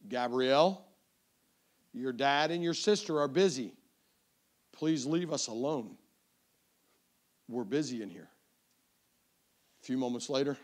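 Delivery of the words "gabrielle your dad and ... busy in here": measured, firm fatherly voice; dad voice. Retold or imitated. Dad telling daughter to leave them alone, dad voice. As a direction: lightly put on a stern dad. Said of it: "got my, my dad voice on again".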